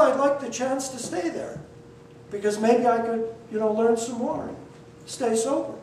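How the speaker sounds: soft, humble and honest, a little hesitant; humble and quiet. Retold or imitated. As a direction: speak it softly and humbly to the judge. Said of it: "very humble, very quiet".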